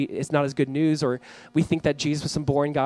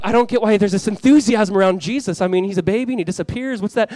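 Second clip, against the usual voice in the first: raised, puzzled protest; acted bafflement; 4 semitones higher, 5 dB louder than usual. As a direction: play a baffled churchgoer, a bit louder. Voicing a puzzled listener.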